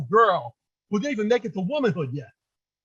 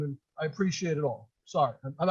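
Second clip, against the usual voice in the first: choked up, breath catching mid-word; fighting tears, breath breaking; catching breath midword; 6 semitones lower, 7 dB quieter than usual. Real, not acted. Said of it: "I'm emotional".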